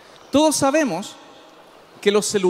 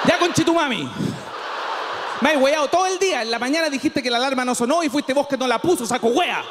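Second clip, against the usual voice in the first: vengeful phone; 2 semitones higher than usual. Acted. Phone scolds owner.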